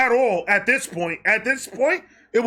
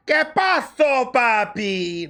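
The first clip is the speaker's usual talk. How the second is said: worried Hispanic mother; 4 semitones higher, much slower than usual. Retold or imitated. Mother voiced asking son.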